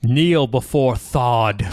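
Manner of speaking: slow, commanding villain decree; a hint of an evil emperor; General Zod. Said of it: "I was thinking General Zod".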